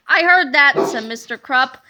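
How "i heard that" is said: a sudden loud protest from across the room; loud indignant call. A narrator's reading. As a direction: call it out, offended. Krupp overhears, calls out.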